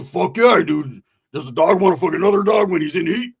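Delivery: loud, emphatic acceptance; eager yes. Retold or imitated. Friend offered a burrito, loudly eager. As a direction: burst out with an enthusiastic yes.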